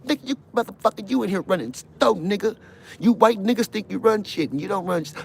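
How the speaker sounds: high, loud barking guard; mock guard yell. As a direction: bellow like a prison guard. Guard ranting at inmate.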